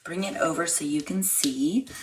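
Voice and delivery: ordinary talk, nothing marked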